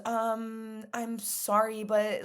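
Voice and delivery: mock a hesitant, intimidated worker, quietly; lightly acted nervous stalling; imitating scared employee. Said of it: "she's scared of me".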